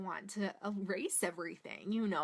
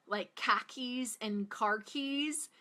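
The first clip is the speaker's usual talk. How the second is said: Boston accent; slower than usual. Shown as a demonstration. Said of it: "that thing that says".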